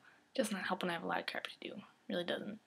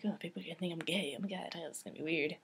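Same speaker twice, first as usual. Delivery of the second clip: whispered worry; 4 semitones lower, 5 dB quieter, faster than usual. Retold or imitated. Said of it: "at first I was like".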